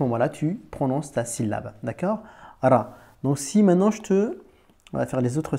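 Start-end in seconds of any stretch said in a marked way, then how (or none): 2.6-3.0 "Ra" with rolled R first, then a; the right "Ra", trilled R leading; correct ra. Shown as a demonstration. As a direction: say "Ra" firmly, consonant first. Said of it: "faut le lire comme ça".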